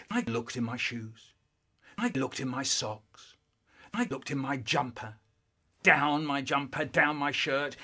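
low, soft, deadpan list; hushed. Acted. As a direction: drop right down for each place searched. Hushed list of searched places.

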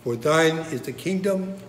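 prayer recitation. Acted. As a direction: recite the Lord's Prayer phrase by phrase.

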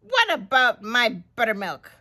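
loud, indignant complaint starting very high; put-out queen, high then quick; fussing. Acted. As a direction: fuss in outrage, then hurry on. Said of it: "fussed the queen".

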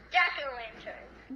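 slow, jaw kept open; mouth held open. Shown as a demonstration. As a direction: lips stay apart throughout. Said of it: "just do it like this".

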